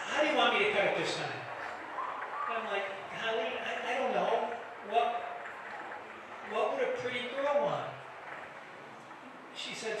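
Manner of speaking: ordinary talk, nothing marked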